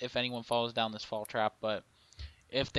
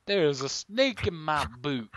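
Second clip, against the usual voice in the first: slow, lightly voiced toy cowboy; 4 semitones higher, 6 dB louder, slower than usual. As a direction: quote it like a toy sheriff. Woody quote imitation.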